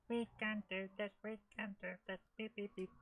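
high, soft mouse chant; attempted cartoon mice. Player urging himself on as the mouse organ mice, squeaky-mouse attempt. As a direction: chant it like little mice on a machine. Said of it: "I can't do the mice".

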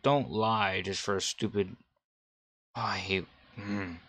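normal talking voice

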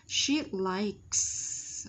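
"She likes" ending in a long S; clear final KS. Shown as a demonstration. Teacher modelling the answer, "She likes" with clear S ending. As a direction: say "She likes" deliberately, sounding the K and S.

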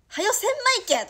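high, loud bossy shout in dialect; mock pushy command. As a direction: bark it like a manager pushing hard. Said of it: "とか". (マネージャーが急かすような高く大きな声)

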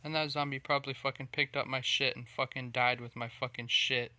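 loud, furious swearing; angry rant. Real, not acted. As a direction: spit it out in real rage. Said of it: "That was very, very irritating".

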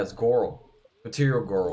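"Goral" with an open aw before the r; girl as "Goral". Shown as a demonstration. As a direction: stretch girl into gaw-rul, "Goral". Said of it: "That's how she says it".

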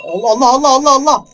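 high, loud, breathless repeated cries; panicked exclamations. Real, not acted. Player recovers from a scare, loud and panicked. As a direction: still reeling from the scare, crying out.

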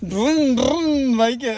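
high playful engine sound drrum drrum; bike noise for a child. Pretend. Parent imitating a bike for son, high and playful. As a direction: make a motorbike noise to amuse the child.

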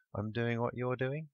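unsure, slowed-down voice; uncertain. A narrator's reading. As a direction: answer unsurely, drawing it out. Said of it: "Babe said uncertainly".

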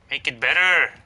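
loud angry shout at the game; raging gamer. Real, not acted. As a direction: yell in real frustration. Raging at lag.

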